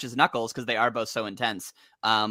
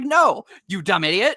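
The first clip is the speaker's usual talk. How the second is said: laughing mock scold; 7 semitones higher, 5 dB louder than usual. Mock-scolding quote of Julie Sue.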